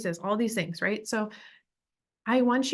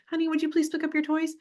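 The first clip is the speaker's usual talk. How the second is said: much higher, fast, sweet plea; passive parent; 8 semitones higher, faster than usual. Shown as a demonstration. Parent sweetly asking child, passive tone. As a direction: beg sweetly, as if they may refuse. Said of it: "the passive tone".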